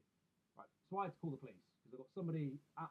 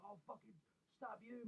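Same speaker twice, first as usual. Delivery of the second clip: higher, slow, sneering thug voice; mock chav threat; 8 semitones higher, 7 dB quieter than usual. Imitating the neighbour threatening his dad with a slow sneer. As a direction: drawl out a lazy threat like a street thug. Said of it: "the guy would be like".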